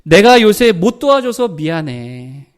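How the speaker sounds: slow, gentle "미안해" said with care; sincere apology. Shown as a demonstration. A husband gently apologizing to his wife for not helping. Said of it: "이렇게 말을 해야 된다".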